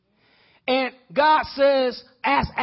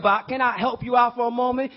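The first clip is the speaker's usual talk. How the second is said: preaching shout; 2 semitones higher than usual. Real, not acted. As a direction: raise the voice and call out to the congregation. Preacher addressing congregation.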